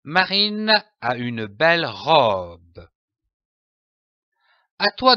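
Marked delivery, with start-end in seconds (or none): 0.0-2.9 falling tune on robe at the end of the sentence; voice drops at the full stop. Shown as a demonstration. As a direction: read it aloud, letting the voice fall on the final word robe. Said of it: "en baissant la voix au point".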